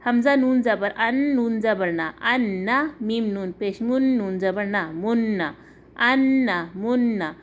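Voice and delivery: letter by letter, holding the doubled n; deliberate syllable-by-syllable spelling; spelled-out recitation. Shown as a demonstration. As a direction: chant out ان نا and من نا with a lingering nasal n. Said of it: "تو یہ کیا ہوگا؟".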